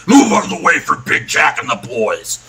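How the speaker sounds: crowd-clearing holler; shouting henchman. Acted. Guy shoving a wagon aside for Big Jack, shouting. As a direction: shout it like a heavy clearing the street. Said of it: "one guy pushes over a wagon, says".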